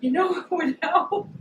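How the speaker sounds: loud, high exasperated yell; laughing then shouting get out; retold shout. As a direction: yell at the man blocking the parking spot. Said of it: "I was like".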